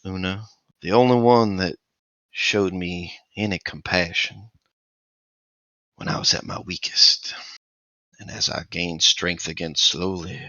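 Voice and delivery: lightly voiced undead lich, menacing; a hint of a creepy skeletal figure; lich speaking. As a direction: undead lich crooning to a favourite. Lich speaks to sleeping player.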